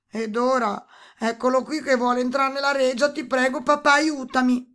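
high, loud, urgent appeal; pleading princess. A narrator's reading. Princess begging her father to keep the toad out, urgent pleading. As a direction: beg for help as the princess.

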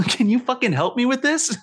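high, loud mock scream for help; hammed-up frantic cry for help; mock frantic yelling. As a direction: yell at the simulation in panic. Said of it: "just screaming into the simulation".

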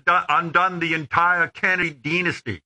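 "dynasty" said the Boston way, dih-nasty; Boston accent on "dynasty"; Boston pronunciation. Acted. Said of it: "That's how we say it in Boston".

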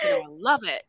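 very high-pitched, eager reply; mock gushing. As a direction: gush it like a smitten pupil, hammed up. Voicing Liberty's gushing answer.

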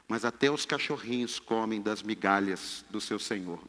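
ordinary talk

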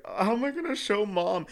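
put-on high anxious child voice; worried kid. Child panics about showing mom the folder, high worried voice. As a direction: fret in a high little voice. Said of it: "I was like".

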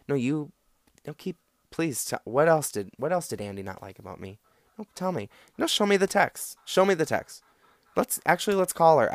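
hammed-up eager friend demanding the text; mock eager. Shown as a demonstration. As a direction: egg them on with bright, mocking eagerness. Mock-eager comeback to an attacker.

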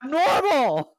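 loud, slow, laughing exclamation. Real, not acted. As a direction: burst it out while laughing. Laughing at test result.

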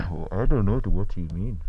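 put-on Wakandan accent back. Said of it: "His accent's back".

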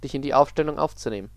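even, measured storytelling voice for an eerie tale; story narration. A narrator's reading. Reading an eerie story aloud to Susanne, calm narration.

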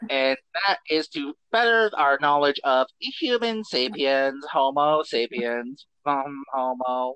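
slow, stiff alien lecture; Coneheads voice. Acted. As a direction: drawl it like a formal alien. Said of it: "No more alien voice".

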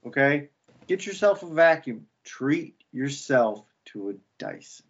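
playfully hard-selling sign-off; mock commercial. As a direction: pitch lifts, then slows for the tagline. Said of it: "I could do a commercial".

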